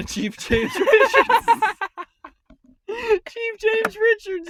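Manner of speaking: high laughing mimic of the caller; mocking caller voice. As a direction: parrot his self-introduction, laughing. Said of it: "Said it on the pill bottle".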